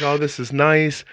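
high, slow, lightly sung-out approval; a touch of cooing satisfaction; mock contented delight. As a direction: act mildly pleased. Acting out his pleased reaction.

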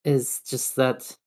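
trailing off. Real, not acted. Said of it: "oh no, I lost my train of thought".

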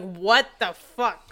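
drawn-out, loud retold shock; startled disbelief. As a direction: stretch it out in stunned disbelief. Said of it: "I looked up and I was like".

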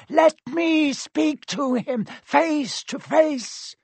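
a dark lord's strange thin voice; high eerie voice. Acted. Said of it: "The high voice spoke again".

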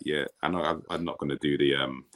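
dry, flat, matter-of-fact quote; imitating a dry manager; deadpan. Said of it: "he's so deadpan".

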